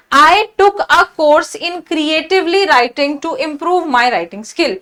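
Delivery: reads the test sentence slowly, word by word. Shown as a demonstration. Teacher reading the exam sentence to students, slow and deliberate. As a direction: dictate it slowly like a question paper.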